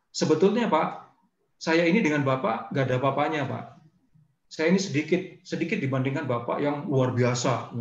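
gushing, exaggerated humility; overly flattering speech that gets in the way; overdone flattery. Shown as a demonstration. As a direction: lay the self-deprecation on too thick. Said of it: "Itu berlebihan gitu".

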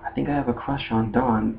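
soft confession at a natural pitch; mock boyish confession. Fan fiction Ash admitting his crush, lightly voiced and soft. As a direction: lightly imitate a boy admitting it quietly.

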